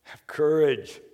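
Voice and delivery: gentle comforting words trailing to a whisper; calm his frightened friends; Jesus reassuring the frightened disciples, gently. Retold or imitated. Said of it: "he immediately goes".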